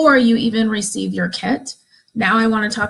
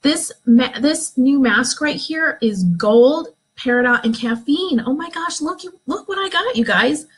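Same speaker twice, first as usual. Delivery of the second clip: excited unboxing; 3 semitones higher than usual. Shown as a demonstration. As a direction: squeal over the mask like a fan. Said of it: "you can say".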